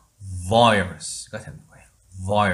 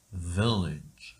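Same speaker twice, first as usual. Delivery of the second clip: whisper; 5 semitones lower, 4 dB quieter than usual. Shown as a demonstration. Teacher whispers model word.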